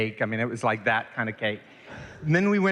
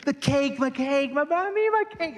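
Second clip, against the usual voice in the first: put-on much higher, a child's wail for his cake; imitating screaming child; 14 semitones higher than usual. Boy runs screaming to his mother about the cake. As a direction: squeal it like a panicked five-year-old. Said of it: "And I go screaming in".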